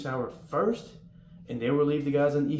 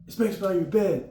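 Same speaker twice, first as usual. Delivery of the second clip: MTI command; 7 semitones higher, 5 dB louder than usual. Retold or imitated. MTI calling out a drill command.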